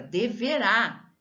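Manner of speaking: deverá with the last syllable RÁ stressed; de-ve-RÁ, landing on the final syllable. Shown as a demonstration. Teacher giving an oxytone example, stress on de-ve-RÁ. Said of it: "é uma oxítona".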